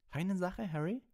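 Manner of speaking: high-pitched hearty yell; Seamus Finnegan yelling. A narrator's reading. Seamus cheering Harry in the crowd, excited yell. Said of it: "brüllte Seamus Finnegan".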